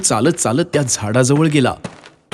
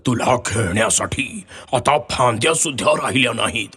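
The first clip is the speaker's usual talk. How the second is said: put-on sad old tree; 4 dB quieter than usual. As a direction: apologise with nothing left to give. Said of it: "झाड म्हणालं".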